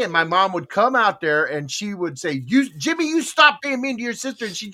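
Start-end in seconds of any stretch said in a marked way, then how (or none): 2.5-4.5 high-pitched imitation of a telling-off; scolding mom. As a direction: play mom laying down the law. Mother scolding in a retold story.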